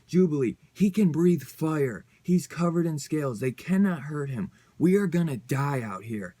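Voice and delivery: loud and urgent, pleading through the fight; panicked yelling. Acted. Betsy yells at Jubilee in battle, panicked and loud. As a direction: shout her down to make her listen.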